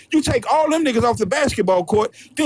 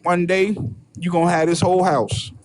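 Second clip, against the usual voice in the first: master voice. Retold or imitated. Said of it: "The master told him".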